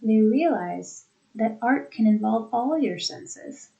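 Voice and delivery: "all" rises and falls within a smooth phrase; emphasis on ALL, unbroken grouping. Shown as a demonstration. Teacher proving emphasis is no new grouping, "all" stressed. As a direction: stress "all" with no break before it. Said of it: "You have emphasis there".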